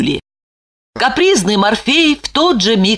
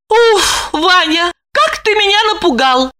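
relieved; 11 semitones higher than usual. A narrator's reading. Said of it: "облегчённо вздохнула Липочка".

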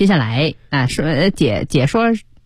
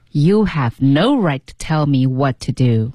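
slightly slow, connected practice read; measured repeat reading; 4 semitones lower, slower than usual. Shown as a demonstration. Co-host repeats the second read, measured and connected. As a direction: echo the sentence smoothly at a learner's pace. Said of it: "那我们来读两遍".

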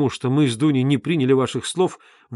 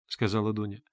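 plain reading voice

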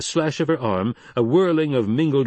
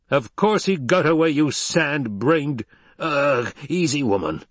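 angry shout into a grunt; 5 semitones higher, slower than usual. A narrator's reading. Stilgar yells, then grunts in pain.

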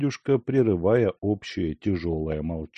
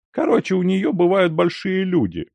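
impatient; 11 semitones higher, 4 dB louder than usual. A narrator's reading. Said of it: "перебил Ляховский, нетерпеливо".

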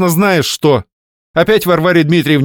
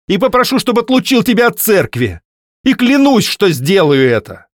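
furious threat; 11 semitones higher, 5 dB louder than usual. Acted. Wife vowing to expose husband.

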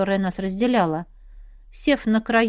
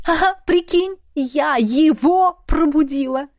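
high, loud, slow spooky emphasis; wide-eyed sister; 6 semitones higher, 5 dB louder, slower than usual. A narrator's reading. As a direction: make it sound dramatic and eerie. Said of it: "Сделала страшные глаза она".

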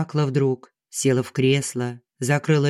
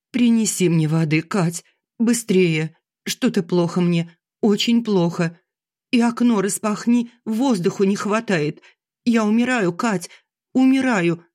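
strained; 6 semitones higher than usual. Acted. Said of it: "проговорила сдавленно".

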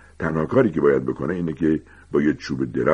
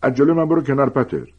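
higher, louder angry order; angry Snape; 9 semitones higher, 7 dB louder than usual. A narrator's reading. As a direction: bark it at Potter to move aside. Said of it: "اسنیپ با عصبانیت گفت".

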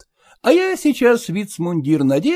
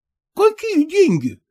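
a mild, lightly voiced exclamation; husband to the cook, mildly exclaiming about the bill; 3 semitones higher than usual. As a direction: protest the bill, only a little raised. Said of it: "воскликнул".

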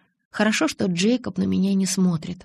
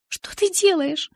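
much higher, slow alarmed cry; tearful snap; 11 semitones higher, slower than usual. A narrator's reading. Bella shouting at injured Jacob, higher and tearful. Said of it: "прикрикнула я на него сквозь слёзы".

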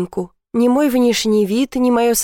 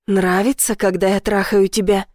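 plain reading voice

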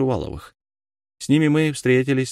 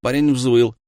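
plain reading voice

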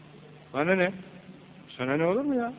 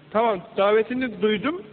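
a touch higher, earnest reply to God's call; mild mock devotion; eager believer's answer; 5 semitones higher, 3 dB louder than usual. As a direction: answer the call gladly, lightly acted.

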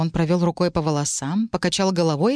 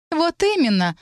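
much higher, bright ringing exclamation; clear ringing voice; 10 semitones higher than usual. Acted. Varianna breaking in from the window, high ringing exclamation. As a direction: cut in with a ringing voice. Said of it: "ясный и звонкий голос Варианны".

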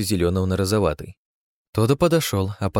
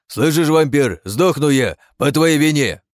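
angry yell; 7 semitones higher, 6 dB louder, slower than usual. Acted. Goblin rages at the vampire.

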